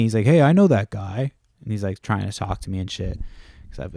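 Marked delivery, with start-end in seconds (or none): 0.2-1.3 imitating a friendly kid, a bit higher and louder; mock-pleasant hello, lifted in pitch and volume; pleasant greeting. Kid greets a man he recognizes at the sale, pleasant. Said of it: "he's all pleasant and shit with me".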